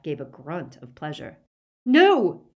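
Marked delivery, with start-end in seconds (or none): 1.8-2.5 high, desperate yell; shouting. A narrator's reading. Boy protests his friend being taken, desperate shout. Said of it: "shouted Ron".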